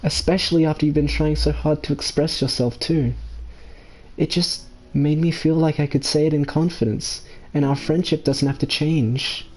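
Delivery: lightly voiced friend opening up; confiding friend. Voices a friend confessing feelings.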